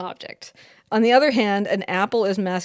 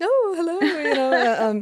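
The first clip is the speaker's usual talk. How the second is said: woman's voice, pitched much higher; 8 semitones higher than usual. Explaining how French speakers voiced a fork on screen, in a woman's voice. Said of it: "most of them wanted to speak in a woman's voice".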